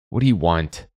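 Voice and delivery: curt, demanding question. Acted. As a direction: demand an answer, stressing you. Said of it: "Nadia demanded".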